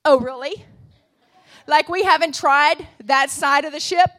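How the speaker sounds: mock sarcastic retort. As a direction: lightly scoff at the idea. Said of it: "here's how I would respond".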